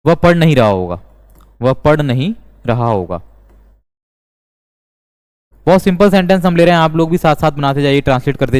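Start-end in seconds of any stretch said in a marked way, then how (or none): 1.6-3.2 slower, in separated phrases; measured, phrase-by-phrase dictation; slow repeat. Shown as a demonstration. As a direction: repeat it slowly for learners, with small pauses. Repeats example slowly for learners.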